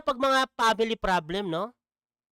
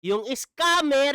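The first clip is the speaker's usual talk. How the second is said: slow, mocking echo of the clip; mocking repeat; 3 semitones higher, 3 dB louder, much slower than usual. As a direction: drag it out like a taunt. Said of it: "Yung scammer, ang kinakampihan ninyo". (mabagal at pakutyang pag-uulit)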